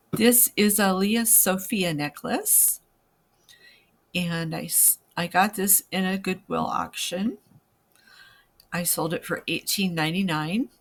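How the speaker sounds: speaking with a sore, stiff jaw; jaw trouble. Real, not acted. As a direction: talk around a jaw that's out of place. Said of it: "I'm sorry if I'm talking funny".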